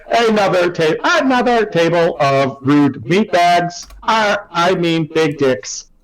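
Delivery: robot voice. Acted. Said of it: "then being like".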